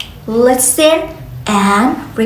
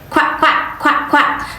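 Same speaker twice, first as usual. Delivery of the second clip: whispered quack. Shown as a demonstration. Teacher imitates duck.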